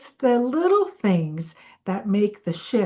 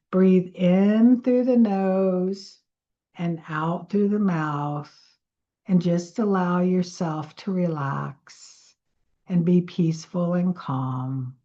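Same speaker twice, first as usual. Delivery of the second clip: guided breathing. Acted. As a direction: lead them gently through the breath. Leads breathing exercise.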